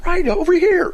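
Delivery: loud, high mock shout; imitated yelling. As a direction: imitate an angry man yelling directions. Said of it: "This guy's yelling at me".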